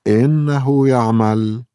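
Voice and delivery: bright happy exclaim, slow; happily. A narrator's reading. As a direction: say it with delight it works. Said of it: "تقول لارا بسعادة".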